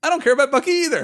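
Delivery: high, loud and quick, echoing the joke; mock agreement. Host gleefully agrees with co-host about Bucky, hammed-up high loud echo.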